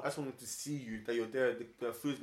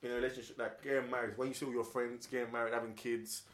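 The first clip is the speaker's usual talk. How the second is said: slow motion; 5 semitones lower, 6 dB quieter than usual. Real, not acted. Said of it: "You're speaking slowly".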